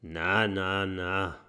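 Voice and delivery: leiser, sanft beschwichtigend; beruhigend. Acted. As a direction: beruhigt einen Verängstigten. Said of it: "beruhigt ihn der Medizindrache". (Medizindrache beruhigt den Stacheldrachen leise)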